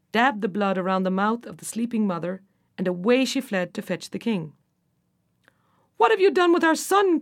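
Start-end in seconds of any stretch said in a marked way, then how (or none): 6.0-7.2 high-pitched, urgent demand; anguished cry. A narrator's reading. King confronting the queen over their son, crying out. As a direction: cry it out in alarm, pitch raised. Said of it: "cried he".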